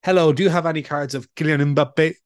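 mock switch from English into a Danish-style name; imitating Danish pronunciation. Fan asking at a card show, imitated Danish pronunciation. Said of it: "dropping back into the Danish pronunciation".

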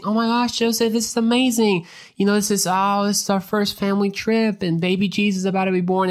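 high, gushing excited voice; excited Mary. Retold or imitated. Mary gushing to Joseph on their first family trip, high and excited. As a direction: gush like a thrilled young mother. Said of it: "with all the emotion of Mary saying".

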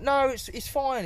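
high, drawn-out mock reassurance; dismissive manager. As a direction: wave the worry away in a high, slow voice. Imitating manager brushing off objection.

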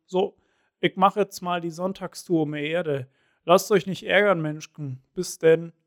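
a cheery god waving goodbye; jovial Zeus. Acted. Zeus speaks from bike saddle.

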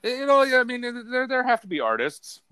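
mock artist whine. Mock whiny artist defense.

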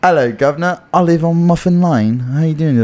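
attempted British accent drifting towards Irish; British accent slipping Irish. Shown as a demonstration. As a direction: copy a British accent and let it slide into Irish. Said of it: "you started going to almost Irish".

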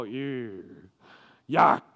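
mock disgusted groan; students disgusted. Students hearing about cousins marrying, mock disgust. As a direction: pull a disgusted face. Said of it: "they go".

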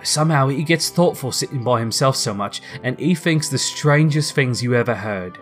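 understated tender father; a touch of emotion while retelling; lightly voiced father, moved by his child; tremulous. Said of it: "Bob's voice was tremulous".

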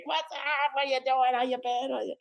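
put-on old classmates greeting him in the hall; bro greeting. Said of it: "doing the bro shake".

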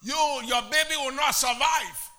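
loud, impassioned preaching. Acted. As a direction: preach it with full force. Preaching at full force.

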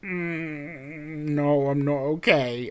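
sickly moan. Retold or imitated. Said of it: "I'm going".

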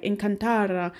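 lightly put-on Spanish accent. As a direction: say it as if you were Spanish. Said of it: "as if I'm a Spanish person".

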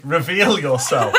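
slightly slow echo of a grand summons; drawn-out mock-grand order; telepathic command. A narrator's reading. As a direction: lightly imitate a commanding telepathic message. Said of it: "you hear Elwyn's voice say".

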